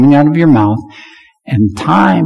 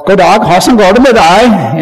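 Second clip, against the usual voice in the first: Norwegian phrase; 3 semitones higher than usual. Shown as a demonstration. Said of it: "in Norwegian".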